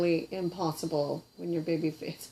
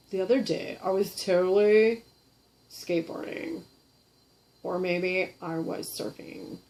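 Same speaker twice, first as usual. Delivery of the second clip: put-on valley boy. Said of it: "a bit of a valley boy".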